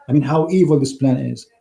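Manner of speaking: strained, fading hoarse voice; losing my voice. Real, not acted. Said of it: "I'm losing my voice".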